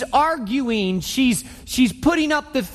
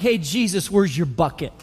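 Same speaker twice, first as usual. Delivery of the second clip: attitude; faster than usual. Retold or imitated. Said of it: "She's got an attitude".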